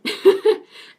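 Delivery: breathy burst of laughter; airy laugh. Real, not acted. Laughing at herself.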